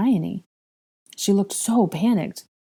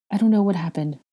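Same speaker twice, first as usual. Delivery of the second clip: mild distress, slightly raised; helpless admission with a falling end; a touch of misery; miserable; 3 semitones higher than usual. Acted. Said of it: "Hermione said miserably".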